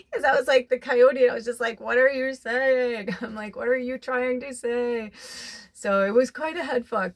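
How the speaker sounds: high, loud, bewildered questioning; excited disbelief. Retold or imitated. Telling viewers the coyote sign baffled her, high excited disbelief. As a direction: keep it up high, half-laughing confusion. Retold bewilderment, still heightened.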